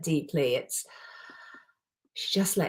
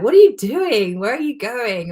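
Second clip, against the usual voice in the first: higher, much louder, disbelieving; incredulous friend; 6 semitones higher, 8 dB louder than usual. Retold or imitated. To best friend flying to America, incredulous outburst. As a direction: blurt it out in shock at a friend. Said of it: "And I was like".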